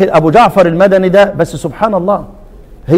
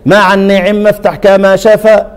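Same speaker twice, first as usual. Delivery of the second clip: مع النعم افتح كما شفا chanted slowly, measured; reciting the verse; slower than usual. Shown as a demonstration. Teacher quoting Ibn al-Jazari's verse, slow chant. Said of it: "هو قال إيه هناك".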